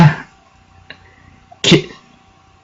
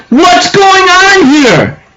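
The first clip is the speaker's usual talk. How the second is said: slow, much higher, stunned voice; stunned question; 12 semitones higher, much slower than usual. Retold or imitated. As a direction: stretch out the confusion. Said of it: "And Oku's like".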